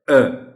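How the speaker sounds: "अ" loud and high, held on its own; vowel sound. Shown as a demonstration. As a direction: stress the short "अ". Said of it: "अ sound है".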